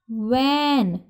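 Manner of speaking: van with a long, drawn-out a sound; long vowel. Shown as a demonstration. Teacher sounding out van for students, long vowel. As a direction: stretch the a in "van". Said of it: "long sound अ की sound आ रही".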